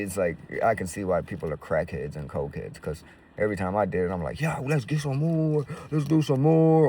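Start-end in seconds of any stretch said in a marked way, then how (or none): 4.4-6.9 eager craving. Retold or imitated. Craving more coke, voiced.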